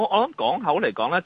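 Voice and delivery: usual speaking voice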